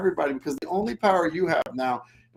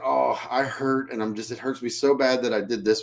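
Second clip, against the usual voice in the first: a touch of a wounded victim; mock victim apology; 5 semitones lower than usual. Shown as a demonstration. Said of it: "I'm a victim".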